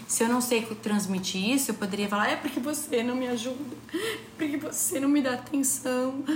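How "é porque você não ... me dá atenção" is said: acusação imitada. Retold or imitated. Ela imita uma briga fingida.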